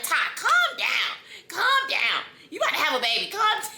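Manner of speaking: high, loud pleading calm down; mama soothing. Retold or imitated. Mama telling her crying daughter to calm down, loud and urgent. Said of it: "my mama was like".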